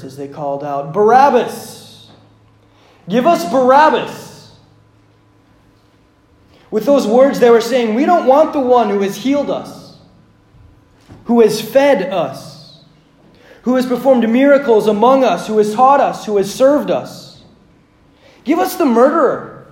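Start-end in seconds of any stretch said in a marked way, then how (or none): 0.9-4.5 slow, louder crowd chant; acting the crowd demanding Barabbas, louder; mob shouting. Preacher voices mob calling out. 7.9-19.7 mob voice. Acted. Preacher voices the mob's meaning.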